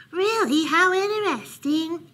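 high, curious mouse voice; intrigued mouse. A narrator's reading. Mouse intrigued by Bear's sensitive ears, high-voiced curiosity. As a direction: sound fascinated, pitched well up.

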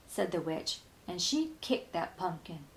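ordinary delivery

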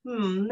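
relaxed hum in chest voice; low hum. Shown as a demonstration. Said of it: "I'm playing with my low".

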